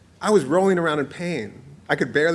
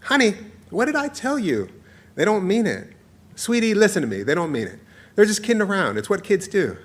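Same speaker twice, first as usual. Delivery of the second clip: reassuring mother; 5 semitones higher than usual. Acted. Mother reassures upset child.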